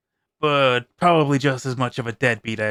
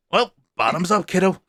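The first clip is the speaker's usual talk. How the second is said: vampire toasting before the bite, a touch louder; mocking toast; 4 semitones higher, 3 dB louder than usual. Vampire toasting the kid before feeding, lightly voiced and sly. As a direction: raise the glass with a sly sneer.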